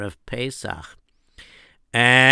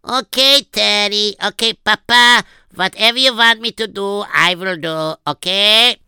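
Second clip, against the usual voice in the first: put-on much higher boyish voice with a light German accent; lightly put-on German accent on an obliging boy; 7 semitones higher, 4 dB louder than usual. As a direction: try a German accent as the eager son. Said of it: "should do a German accent too".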